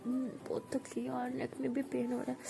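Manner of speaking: sleepy sigh. Acted. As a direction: sigh it out, half asleep. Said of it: "बोलती". (थकी हुई धीमी आह)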